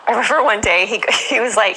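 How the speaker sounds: usual speaking voice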